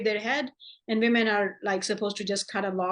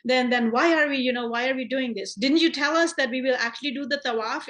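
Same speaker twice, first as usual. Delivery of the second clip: raised and louder, pressing why; agitated complaint, pitched up; retold angry protest; 4 semitones higher, 4 dB louder than usual. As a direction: demand an answer in frustration. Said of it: "and he's angry".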